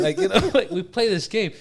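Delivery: talking through loud laughter; cracking up mid-sentence; laughing. Real, not acted. Laughing while describing game.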